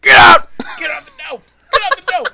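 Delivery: high, loud yell heard from across the store; repeated yell from the back of the store; distant shouted command. Retold or imitated. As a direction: shout it from far away. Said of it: "you just hear in the background".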